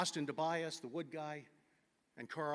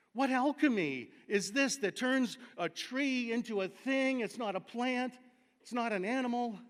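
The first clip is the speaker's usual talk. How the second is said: awed; 7 semitones higher, 4 dB louder than usual. Real, not acted. Awed exclamation over mushrooms.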